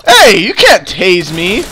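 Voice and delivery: loud, slow, cocky; defiant suspect. Acted. Suspect shrugging off the taser, loud and cocky. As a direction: brag loudly like you can't be tased.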